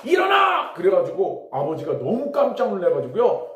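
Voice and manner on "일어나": high-pitched sudden shout; startling cry of a voice from nowhere; sudden waking command. Retold or imitated. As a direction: shout it to jolt a sleeper awake. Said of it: "딱 얘기를 하는 거예요".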